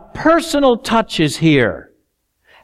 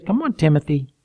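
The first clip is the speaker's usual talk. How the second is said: gentle encouragement; 5 semitones lower than usual. Acted. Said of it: "very gently, very kindly says".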